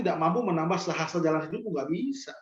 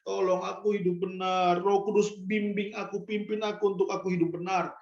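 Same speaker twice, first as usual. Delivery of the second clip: tearful prayer; 4 dB quieter than usual. Acted. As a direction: plead humbly with God, as if near tears. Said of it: "Kita akan menangis".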